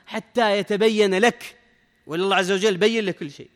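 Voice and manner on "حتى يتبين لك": very slow, drawn-out حتى يتبين لك; حتى يتبين لك spaced out slowly for emphasis; emphatic verse quotation. Real, not acted. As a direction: stretch each word of حتى يتبين لك. Stresses words of quoted verse.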